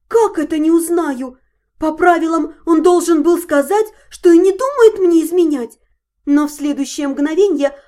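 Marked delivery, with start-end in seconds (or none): 0.1-5.8 indignant, rising to loud anger; righteous indignation, building louder. Acted. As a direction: flare up, getting louder. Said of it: "Я загорелась от праведного гнева".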